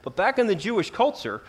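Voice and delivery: usual speaking voice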